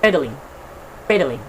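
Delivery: pedaling with PE stressed. Shown as a demonstration. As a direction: hit the first syllable of pedaling. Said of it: "the first syllable of this word".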